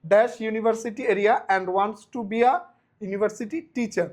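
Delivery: slow, word-by-word question reading; slow dictation. Shown as a demonstration. Teacher reading the second exam question slowly. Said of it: "He lives in".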